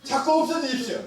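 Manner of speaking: high, emphatic pulpit delivery; forceful preaching. Real, not acted. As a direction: exhort the congregation with conviction.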